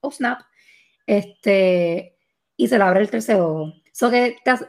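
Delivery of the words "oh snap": mock amazement. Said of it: "Y es como que".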